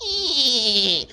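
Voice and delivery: long high creak imitation; creaking tree sound. Describing the neighbor's tree falling, a long mock creak. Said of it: "creaking fall down".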